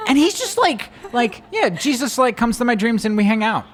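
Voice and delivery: laughing while quoting. Real, not acted. Dad laughs retelling his son's casual dream talk, high and amused.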